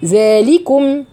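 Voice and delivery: ordinary talk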